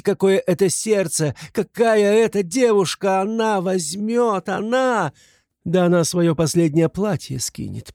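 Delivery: high, impassioned plea; crying out. A narrator's reading. Katerina telling everyone of Sonya's sacrifice, impassioned cries. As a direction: cry out her praise in anguished pride. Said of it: "кричала она".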